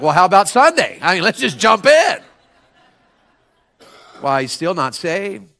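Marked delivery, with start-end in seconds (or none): 0.0-2.2 retold eager invite. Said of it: "I was like".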